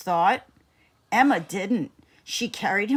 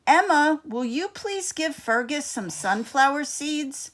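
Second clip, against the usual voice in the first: teacher Miss Maxwell; 7 semitones higher than usual. A narrator's reading. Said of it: "Miss Maxwell said".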